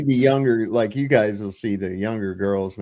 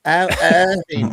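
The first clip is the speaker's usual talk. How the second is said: higher, louder, slow mock bride voice; Jewish bride; 7 semitones higher, 7 dB louder, slower than usual. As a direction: swoon over Irving, hammed up. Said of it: "Be like a Jewish bride".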